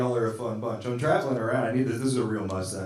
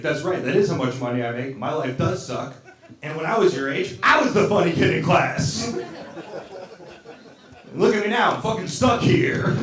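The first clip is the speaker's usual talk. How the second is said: mock teacher rant; 3 semitones higher than usual. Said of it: "go into class and be like".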